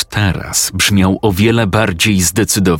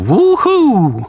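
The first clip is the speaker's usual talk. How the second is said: cheering shout. Acted. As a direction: cheer the boy on. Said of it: "krzyknęło zachęcająco".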